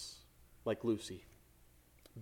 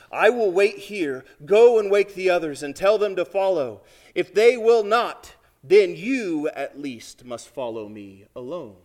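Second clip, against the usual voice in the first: Aslan's lion voice; 3 semitones higher, 9 dB louder than usual. A narrator's reading. Aslan speaks in read-aloud story.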